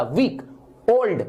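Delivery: "वीक", then "ओल्ड", each one unbroken beat; one flow each. Shown as a demonstration. Teacher contrasting syllable counts, "वीक" and "ओल्ड" each in one flow. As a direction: say "वीक" and "ओल्ड" each in a single go, pause between. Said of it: "एक flow में निकला".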